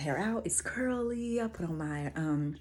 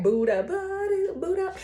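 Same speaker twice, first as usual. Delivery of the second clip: high-pitched; 13 semitones higher, 4 dB louder than usual. Retold or imitated. Teasing inner monologue.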